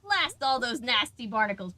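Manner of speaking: a hint of a little pirate. Shown as a demonstration. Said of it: "the little voice is like".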